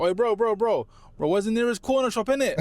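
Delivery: imitated London street hustler, pitched high; London gang accent. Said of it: "someone comes up to you talking like that".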